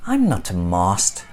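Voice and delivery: high, loud, building protest shout; indignant shouting Stickman; despairing Stickman. Acted.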